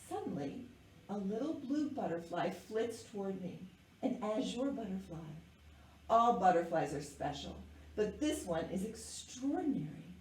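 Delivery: measured, expressive picture-book narration; story reading to children. A narrator's reading. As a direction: read it aloud to young listeners with clear phrasing. Reads picture book aloud.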